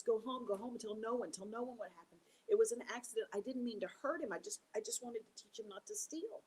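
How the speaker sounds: Possum begging his friend to run; high worried animal voice; alarmed Possum. Acted. Possum panics after the accident.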